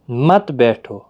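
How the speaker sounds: مت بیٹھو set apart, with weight on مت; separate phrase after pause. Shown as a demonstration. Teacher shows the stop's meaning, مت بیٹھو said separately. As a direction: start مت بیٹھو fresh after a stop. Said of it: "یہاں پر آپ جب رکیں گے".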